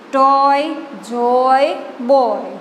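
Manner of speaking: ટોય, જોય, બોય one at a time, matching -oy endings; rhyming word demo. Shown as a demonstration. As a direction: model the shared rhyme in ટોય, જોય, બોય. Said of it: "ટોયની જેમ જ થાય છે". (ટોય, જોય, બોયનો છૂટો, સરખો પ્રાસવાળો ઉચ્ચાર)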